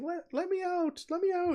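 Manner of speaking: very high, pleading, begging female voice. Narrating a scene, voicing someone trapped inside a sack: female voice. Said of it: "a female voice coming from within the sack saying".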